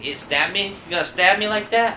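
high loud disbelief; incredulous. Acted. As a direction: scoff at the threat. Incredulous retort.

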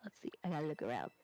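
whispering. Real, not acted. Muttering to self while searching.

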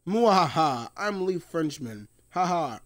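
hammy French villain with evil cackle; French-accented mock villain laugh. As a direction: put on a playful French accent, gloating. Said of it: "in a French accent".

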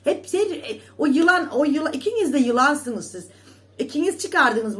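high, loud snake insult; angry accusation. Real, not acted. Accusing two rivals of being snakes, loud and angry. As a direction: spit out the insult.

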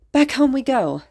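high-pitched happy call; gleeful yell. A narrator's reading. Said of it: "Izuku yelled".

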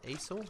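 "Easel" tried as ay-zul, questioning; trying another pronunciation. Shown as a demonstration. Player testing the word, "Easel" said ay-zul, unsure. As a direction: open "Easel" on an ay sound, rising. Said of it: "Is that how you say it?".

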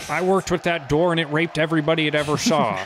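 hammy stand-up delivery; mock comedian voice. Parody joke in put-on voice.

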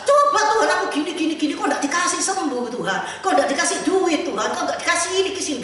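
mock whiny prayer. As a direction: plead like a spoiled believer who feels owed.

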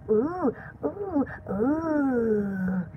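soft, low shivering "ooh"; shivery feeling. Shown as a demonstration. Showing the feeling of a shudder, soft shivery oohs. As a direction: shudder softly on each ooh. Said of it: "It's the feeling you get that's like".

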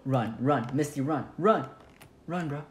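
urgent yelling to run; being chased. Real, not acted. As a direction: shout at them to flee.

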